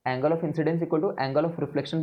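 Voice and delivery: each phrase laid down for students to copy; slow dictation. Shown as a demonstration. Teacher dictates the reflection law to students, slowly. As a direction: spell the definition out slowly for notes. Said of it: "तुम्हें क्या बोलना होता है?".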